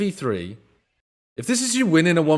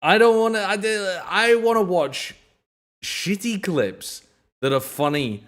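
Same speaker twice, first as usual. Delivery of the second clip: exasperated rant; 4 semitones higher, slower than usual. Real, not acted. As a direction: drag it out in disbelief. Streamer ranting at clip.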